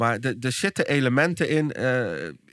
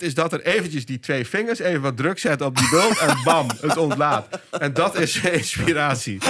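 laughing through it. Real, not acted. Laughs at his gross metaphor.

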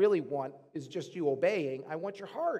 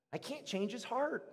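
softer, slightly raised admission; softly stated; 3 semitones higher, 7 dB quieter than usual. Real, not acted. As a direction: say it softly, HEART trailing down. First statement, before emphatic repeat.

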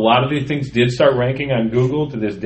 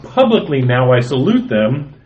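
poem reading; 3 semitones higher than usual. Acted. Reading his humorous poem to podcast co-hosts, performed reading. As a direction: read it out with a bouncing meter, savoring the jokes.

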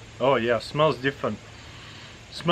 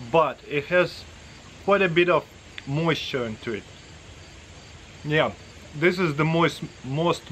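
talking with mouth full; eating between words; chewing food; 3 semitones higher than usual. Real, not acted. Seen 1: spoons pâté from can into mouth repeatedly, chewing while talking.

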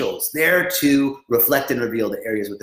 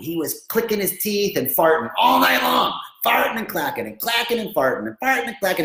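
mock indignant complaint; 4 semitones higher than usual. Woman complaining about her ruined night.

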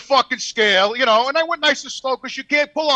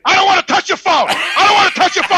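louder, higher, laughing repeat; mock irritated refusal; 9 semitones higher, 7 dB louder than usual. Scale guy refusing the driver's phone, mock annoyed. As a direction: huff it out like a crabby clerk.

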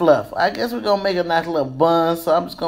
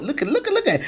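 laughing look; 8 semitones higher, 4 dB quieter, much faster than usual. Real, not acted. Admiring her hair, laughing.

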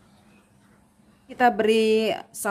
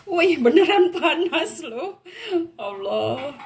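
mouth full of hot food; 8 semitones higher than usual. Real, not acted. Eating pizza straight from pan.

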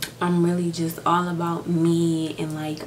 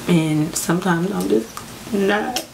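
real crying. Real, not acted. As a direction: speak while really crying, pushing through. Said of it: "why I'm crying right now".

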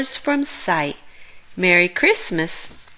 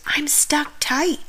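whispered, higher Santa voice; 7 semitones higher than usual. A narrator's reading. Santa whispering down the chimney that he's stuck. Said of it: "Santa whispers".

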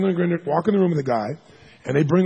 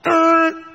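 high, loud yank grunt; effort grunt; 14 semitones higher, 7 dB louder than usual. Retold or imitated. Therapist grunting while yanking out a patient's chest hair. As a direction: grunt as you pull hard.

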